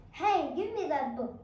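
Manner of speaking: grab the book with your voice; demanding grab. Shown as a demonstration. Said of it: "the action will be like this".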